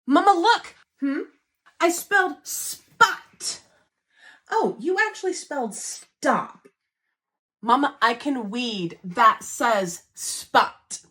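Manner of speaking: put-on excited little kid. Mom acts her little kid.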